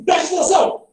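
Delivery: high-pitched exclamatory command; exclamation. Shown as a demonstration. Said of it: "Uma exclamação".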